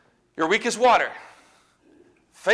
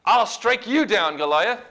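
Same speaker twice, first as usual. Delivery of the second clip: louder, higher defiant challenge, moderately acted; defiant yell; 3 semitones higher, 5 dB louder than usual. David answering Goliath on the battlefield, defiant yell. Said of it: "He yelled back defiantly".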